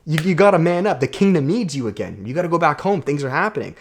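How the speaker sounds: hammed-up mentor shouting him awake; Rafiki yelling at Simba. Rafiki the mentor scolding lazy Simba to man up, loud mock yell.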